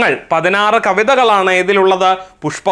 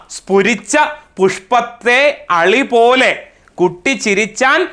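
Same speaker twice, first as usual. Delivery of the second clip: poem recitation; 2 semitones higher than usual. Acted. Teacher reciting the poem's closing verse to class, poem recitation. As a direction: recite each phrase apart in a singsong cadence.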